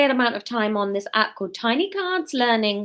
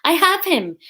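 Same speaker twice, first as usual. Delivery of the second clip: raised, higher-pitched call; 8 semitones higher, 5 dB louder than usual. A narrator's reading. Marine pinning the man to her companions, calling out. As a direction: call it out to the others. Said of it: "she called out".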